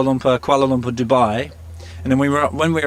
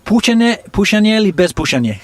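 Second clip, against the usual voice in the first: higher and louder, a bright quizzing offer; mock-keen translator, higher and louder; playful interpreting; 7 semitones higher, 4 dB louder than usual. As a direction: toss the question over like an eager helper. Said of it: "I turn to him and I go".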